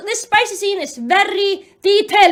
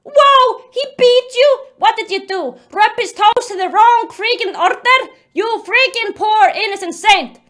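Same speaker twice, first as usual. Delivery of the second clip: raised, jeering mock shout; screaming proudly; 4 semitones higher, 3 dB louder than usual. The speaker mocking Jennifer's accusation, proud shouting. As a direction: taunt with hammed-up pride. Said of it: "screaming proudly".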